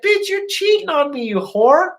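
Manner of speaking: put-on retelling how he screamed at his cheating girlfriend; retold angry yell. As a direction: hurl it at her in a rage. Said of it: "I was like".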